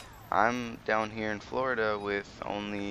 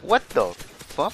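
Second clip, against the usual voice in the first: high, slow, drawn-out what the fuck; stunned disbelief; 7 semitones higher, 8 dB louder, slower than usual. Retold or imitated. Told mom we're moving in two weeks, high slow stunned disbelief. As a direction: let the shock stretch every word. Shocked at sudden move news.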